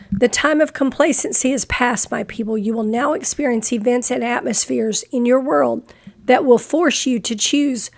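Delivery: short of breath, reading on; struggling for breath between phrases. Real, not acted. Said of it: "I'm very short of breath".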